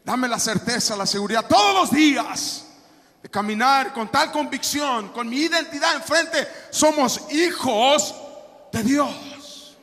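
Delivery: forceful declaration with emphatic bursts; rousing preaching. Acted. Believer asking for daily certainty, rising into full-force proclamation. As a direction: proclaim it, stretching the final words.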